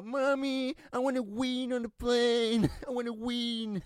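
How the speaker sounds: put-on very high, drawn-out child voice; whining English-speaking kid. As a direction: mimic a little kid pleading to mum. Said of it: "ungen pratar bara engelska". (härmad gnällig barnröst)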